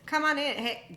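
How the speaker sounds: mock cheerful invitation that builds to a loud peak; mock welcoming host. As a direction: wave everyone in like an overeager party host. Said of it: "you're like".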